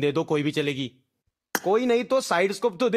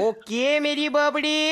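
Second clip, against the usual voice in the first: slow sing-song catchphrase; 5 semitones higher, slower than usual. Acted. Catchphrase repeated.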